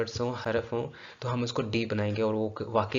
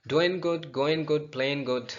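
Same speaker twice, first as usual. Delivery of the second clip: lively demo; 4 semitones higher, much slower than usual. Shown as a demonstration. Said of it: "You are going to make silence".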